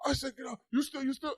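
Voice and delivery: high, agitated mock accusation; accusing store owner. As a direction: imitate a worked-up shopkeeper in a high voice. Owner accusing kids as they return.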